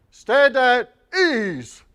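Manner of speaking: slow, stretched-out shouted order; drawn out parade command. Acted. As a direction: draw the command out across the parade.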